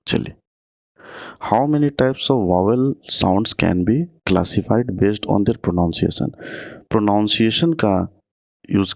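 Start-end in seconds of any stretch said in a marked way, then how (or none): 1.5-6.3 slow, deliberate exam-question read; reading the question aloud. Shown as a demonstration. Teacher dictating a quiz question to students, slowly.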